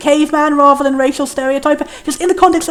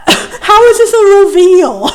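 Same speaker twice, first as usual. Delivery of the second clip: laughing; 5 semitones higher, 5 dB louder, much slower than usual. Real, not acted. Laughing at the plot reveal.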